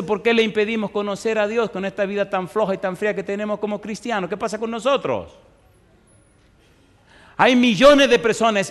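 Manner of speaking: impassioned pulpit appeal; fervent preaching. Acted. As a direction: preach it out to the congregation. Preaches at full force.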